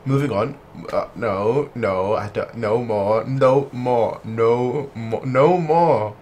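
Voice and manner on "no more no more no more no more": rising protest. Real, not acted. Repeating protest.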